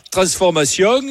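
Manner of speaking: full southern French twang on the last syllable of "transformation"; "transformation" with a strong southern French ending; southern French accent. Shown as a demonstration. Host teasing caller about hidden accent, exaggerated southern French ending on "transformation". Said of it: "t'as les petites intonations à la fin".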